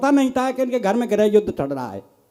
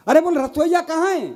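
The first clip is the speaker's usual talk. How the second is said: exasperated call; 6 semitones higher than usual. Retold or imitated. Husband calls wife in quarrel.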